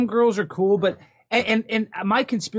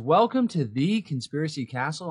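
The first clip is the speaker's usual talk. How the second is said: ringmaster. Acted. Opens show as circus announcer.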